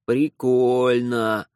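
slow, drawn-out admiring; drawn-out respectful. Acted. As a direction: stretch it with respect. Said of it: "с уважением в голосе протянул".

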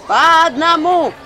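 high, loud, slow barked command; barking order. A narrator's reading. Healer orders the crowd one by one, barking. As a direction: bark it at the crowd. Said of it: "рявкнула я".

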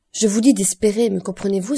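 loud, insistent command; loud urging exclamation; forceful cry. Acted. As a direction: order him to hope, forcefully. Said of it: "s'écria Monte Cristo".

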